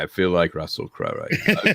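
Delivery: put-on a light Australian accent, Russell Crowe style. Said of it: "Do the accent".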